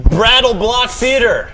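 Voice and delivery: slow, high, drawn-out announcer; announcer title read. Acted. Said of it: "this fake announcer voice you've just adopted".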